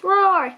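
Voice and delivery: dinosaur roar. Acted. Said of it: "He'd roar at stones".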